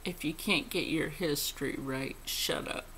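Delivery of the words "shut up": breathy hushed dismissal; whispered shut up. Real, not acted. Telling critics off, whispered. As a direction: whisper it coldly.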